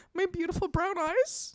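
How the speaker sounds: lightly hammed vanity; mock vain. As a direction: savour it like a vain compliment. Retold self-admiring reply.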